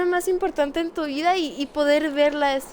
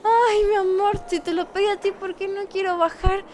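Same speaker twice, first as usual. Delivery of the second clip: whiny complaint; 5 semitones higher than usual. Real, not acted. Whining to boyfriend about snack.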